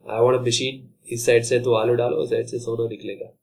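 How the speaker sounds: fast greedy cat. Retold or imitated. Cat's greedy wish.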